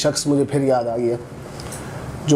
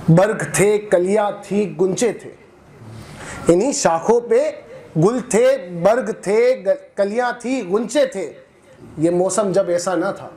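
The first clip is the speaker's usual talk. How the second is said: measured verse with rising repeats; poetry recitation; 4 semitones higher, slower than usual. Acted. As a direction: recite line by line, letting each phrase hang. Recites a second poem.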